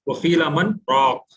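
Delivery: slow "वकीला मन", momentary stop, then "राक"; brief breathless pause. Shown as a demonstration. Teacher showing students the sakta, short halt before "राक". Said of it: "बगैर सांस तोड़े के रुकते हैं".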